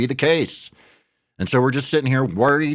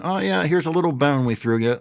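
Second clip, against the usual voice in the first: mocking quote; 5 semitones higher than usual. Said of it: "And then".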